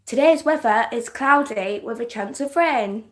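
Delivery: lightly hammed-up weather presenter; playful sing-song forecast read; put-on radio voice. Shown as a demonstration. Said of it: "put on a weird voice".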